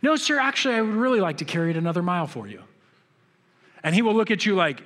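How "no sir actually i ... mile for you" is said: paraphrasing Jesus. Retold or imitated. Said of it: "Jesus says".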